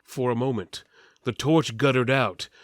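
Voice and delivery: ordinary delivery, nothing marked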